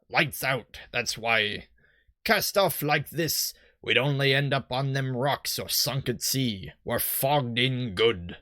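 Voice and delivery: lightly voiced old sea-dog; a hint of stock pirate in it; generic pirate. Boat salesman explains the fog, light generic pirate. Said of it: "I'll just do my generic pirate".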